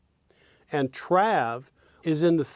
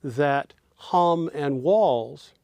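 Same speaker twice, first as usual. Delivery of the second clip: whisper; much slower than usual. Shown as a demonstration. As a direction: hum and walls whispered slowly. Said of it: "it's fair to say".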